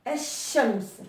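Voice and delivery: الشمس said with the shin pressed and doubled; الشمس with a long sh. Shown as a demonstration. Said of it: "On appuie sur le, la lettre shin".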